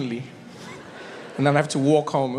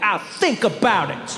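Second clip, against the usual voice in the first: put-on slow, higher, haughty kid reply; unlimited attitude; 5 semitones higher, slower than usual. Kid to apologetic mom, drawn-out sassy attitude. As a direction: make her wait for forgiveness. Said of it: "give my mom unlimited attitude".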